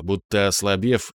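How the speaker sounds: plain reading voice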